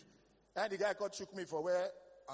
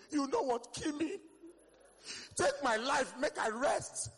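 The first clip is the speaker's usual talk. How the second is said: mock exhausted antelope; 6 semitones higher, 3 dB louder, slower than usual. Antelope begging God for death.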